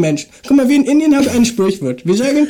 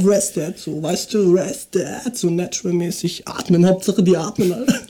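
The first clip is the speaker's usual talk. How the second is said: Kiffer; 3 semitones lower than usual. Acted. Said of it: "dann mach ich den, den Kiffer".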